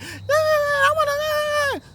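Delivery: very high, loud mock kid wail; clamoring kids. Kids coming up to an adult, mock whiny clamor. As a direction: squeal it like a whining child, exaggerated. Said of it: "like a whole bunch of kids".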